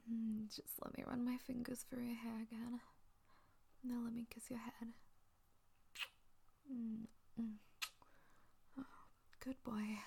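hushed, tender whisper. Acted. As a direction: whisper it softly and close. Whispered soothing.

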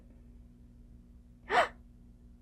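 sharp delighted gasp. Acted. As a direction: gasp in happy surprise. Delighted surprise at partner's reaction.

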